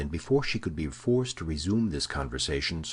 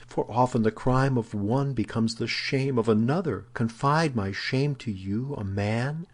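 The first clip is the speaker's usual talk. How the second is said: higher-pitched, modest protest; modest dismay; 6 semitones higher than usual. A narrator's reading. Woman shrinking from confessing to a man, high modest dismay. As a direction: raise the voice in pitch, as if ashamed. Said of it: "with the blush of modesty".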